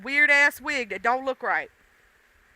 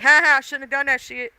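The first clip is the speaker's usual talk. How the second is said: louder, quick mock "ha ha" jeer; mock laughing; 6 dB louder, faster than usual. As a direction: act out laughing at someone's blunder. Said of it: "and I'm laughing".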